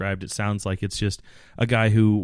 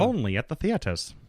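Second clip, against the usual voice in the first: high, showy ad announcer; 7 semitones higher, 3 dB quieter than usual. Pretend. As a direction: sell it like a movie trailer. Mock movie theater ad.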